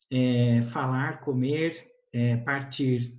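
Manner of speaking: normal talking voice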